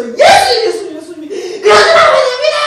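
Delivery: high, loud, frantic shouting; struggling cries. Acted. Beggar struggling to be seen in the crowd, frantic shouting. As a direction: shout desperately to get noticed. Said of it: "눈에 띄기 위해서 발버둥 치면서".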